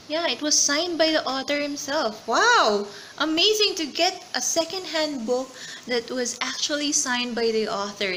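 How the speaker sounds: delighted gasp at a signed book; really thrilled, voice lifting high and loud; excited. Real, not acted. Reader finds the author signed her secondhand book, excited.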